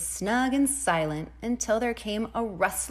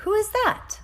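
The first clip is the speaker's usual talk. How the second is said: much higher, louder who; startled call; 6 dB louder than usual. Acted. Rosebud calls out at the keyhole, high and startled. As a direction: jump at the noise.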